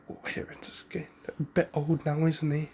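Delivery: put-on whispered gossip about the old man; gossipy whisper. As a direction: lean in and whisper it like village gossip. Villagers gossiping about old Hiruzen.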